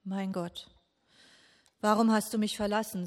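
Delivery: loud, quick anguished cry to God; a desperate psalm cry, pressed forward. Retold or imitated. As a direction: call it out in despair, rushing. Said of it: "So hat Jesus den Psalm gerufen".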